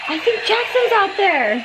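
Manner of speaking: mock excited gasp. Retelling what he said when he woke up, with an excited gasp.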